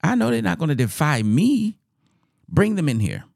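high-pitched indignant royal outburst; angry king. Acted. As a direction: play an affronted king demanding obedience. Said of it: "king was mad. King was angry".

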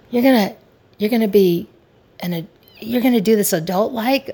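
high, loud, incredulous; mock astonishment. Wife marvelling at her husband acting adult, stunned. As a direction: act amazed he's being so grown-up.

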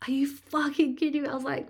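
high-pitched incredulous complaint; retold disbelief, pitched right up; exasperated. Labouring woman at partner boiling a kettle, exasperated.

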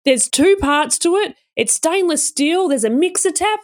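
high, protesting mimicry of a let-down husband; disappointed. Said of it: "John was really disappointed".

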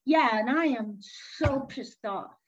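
slow, emphatic mock indignation; mildly angry, drawn-out complaint; retold anger. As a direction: imitate a fed-up client, leaning on the words. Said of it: "now we're at anger and we're really angry".

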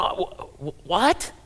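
mock stammering disbelief; hammed-up flustered shock; freaking out. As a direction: stumble over the words, voice jumping up on "what". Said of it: "he's freaking out going".

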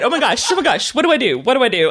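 mock flustered, pitch jumping up; retold panic. Driver asks passenger what to do, mock panicked. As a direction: imitate a driver freaking out. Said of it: "you were freaking out".

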